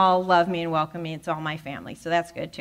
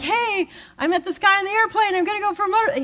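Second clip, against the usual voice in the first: excited news; 13 semitones higher, 4 dB louder, faster than usual. Retold or imitated. Retelling her excited news to Tamara.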